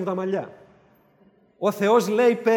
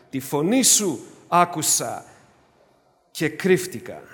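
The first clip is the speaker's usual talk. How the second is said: lightly voiced frightened Adam; 4 semitones lower, 3 dB louder, slower than usual. Adam's words voiced slowly.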